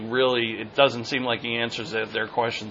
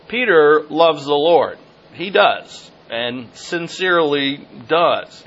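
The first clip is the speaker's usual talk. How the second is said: emphatic preaching; 3 semitones higher, 7 dB louder, slower than usual. Real, not acted. Preacher stressing Peter's love.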